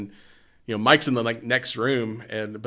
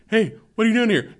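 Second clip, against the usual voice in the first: put-on high teasing babysitter; 10 semitones higher than usual. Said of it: "She's like".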